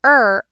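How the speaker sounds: rounded "er" with open mouth; drawn-out, rounded "er"; vowel er sound. Shown as a demonstration. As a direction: hold "er" as a full vowel. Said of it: "That is different than the er".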